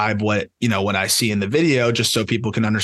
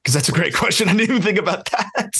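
laughing through the words, higher toward the end; amused surprise; 6 semitones higher than usual. Real, not acted. Analyst caught off guard by co-host's great question, laughing. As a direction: let a laugh lift the admission.

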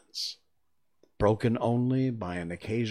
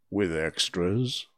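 anxious; 4 dB louder, slower than usual. Acted. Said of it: "a little anxiously".

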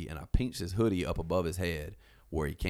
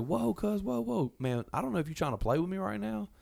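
much higher alarmed voice; startled whoa; 12 semitones higher than usual. Retold or imitated. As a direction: jump back, shocked and high. Canyon warning the dude.

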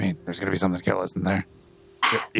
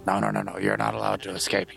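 scolding a goat; 11 semitones lower, faster than usual. Acted.

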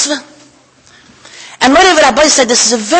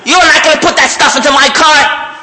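laughing, louder outraged protest; outraged owner; 5 semitones higher, 5 dB louder than usual. Retold or imitated. Car owner refusing gasoline in his car, outraged and laughing. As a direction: protest through a laugh, voice raised.

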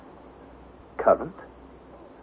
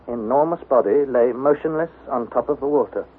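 usual speaking voice

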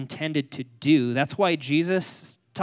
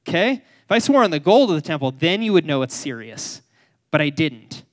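mock smug excuse; 6 dB louder than usual. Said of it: "And like".

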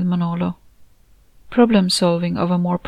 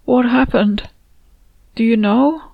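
shaken; 5 semitones higher than usual. Acted. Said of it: "He swallowed hard and tried again".

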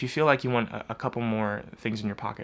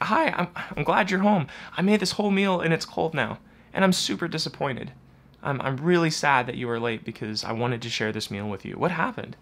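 gentle startup; 3 semitones higher than usual. Retold or imitated. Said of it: "this gentle startup".

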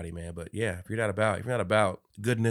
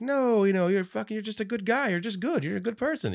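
retold reassurance; 13 semitones higher than usual. Voicing sister reassuring dull brother.

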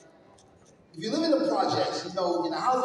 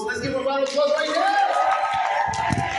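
higher, louder crowd call; hype shout; 5 semitones higher, 5 dB louder than usual. Real, not acted. Speaker hypes the crowd for applause, shouting. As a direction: whip up the applause. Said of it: "hyping the crowd".

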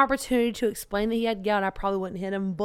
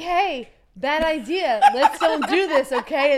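smiling warning; 3 semitones higher, slower than usual. Retold or imitated. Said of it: "I smile when I get mad".

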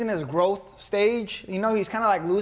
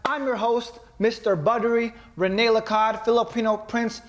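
ringmaster; 2 semitones higher than usual. Acted. Podcast intro like circus announcer.

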